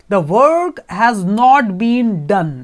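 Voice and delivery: very slow, flat machine read; slow, flat robot announcement; metallic robot voice. Acted. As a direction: spell it out like a robot. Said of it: "metallic voice में robot".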